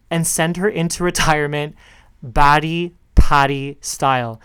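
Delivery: put-on a weak stab at an Australian accent, slowed; half-hearted Australian accent on retirement and Batty Patty; playful, clumsy Australian accent; bad Australian accent. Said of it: "my poor attempt at an Australian accent".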